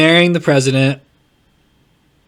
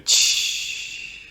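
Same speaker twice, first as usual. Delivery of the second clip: shushing sound; 9 dB quieter than usual. Shown as a demonstration. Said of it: "just go".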